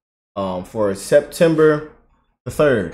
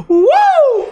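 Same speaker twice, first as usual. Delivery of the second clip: high, loud cheering whoop; excited whoop; 8 dB louder than usual. Real, not acted. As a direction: whoop like a fan in the crowd. Cheering the speaker's clip.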